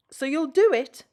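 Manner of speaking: hopeful. A narrator's reading. Rusty hopeful question.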